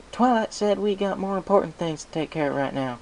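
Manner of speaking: a little dragon quoting orders; Spike's voice. Acted. Spike repeats Twilight's order.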